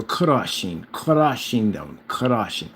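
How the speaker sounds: "crushing" drawn out slowly, R rolled; Russian-style rolled R. Shown as a demonstration. Admiring the Russian accent, "crushing" with rolled R. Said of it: "the accent for Russian".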